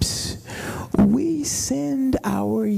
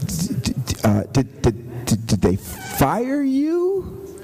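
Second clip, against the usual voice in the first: stunned stammer; 3 semitones lower than usual. Retold or imitated. Pastor stammering in disbelief.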